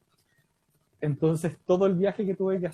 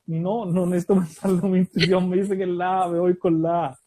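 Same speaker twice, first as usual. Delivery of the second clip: louder, firm and sure of himself; confident loud reply; 3 semitones higher, 7 dB louder than usual. Retold or imitated. Contestant telling the host he's sure, firm and loud. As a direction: insist it's the A with full confidence. Retelling confident answer on TV show.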